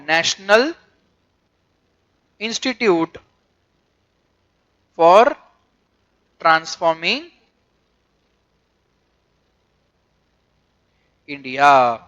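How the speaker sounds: long pauses after National, Institute, for and Transforming; each word set apart, India dropping low at the end; word-by-word dictation. Shown as a demonstration. Dictating full form word by word.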